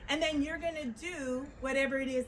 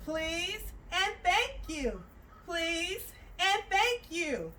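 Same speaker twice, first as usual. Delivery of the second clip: slow singsong; much slower than usual. Shown as a demonstration. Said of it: "you're gonna say".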